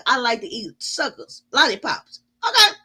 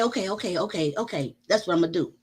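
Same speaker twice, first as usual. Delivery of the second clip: meek agreement; 8 semitones lower, 6 dB quieter, faster than usual. Retold or imitated. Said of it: "I say".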